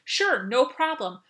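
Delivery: high, eager yes to the boss; chirpy, willing reply that takes back control; eager to help. Shown as a demonstration. Employee answering a critical boss, high and eager. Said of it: "Take back control and say".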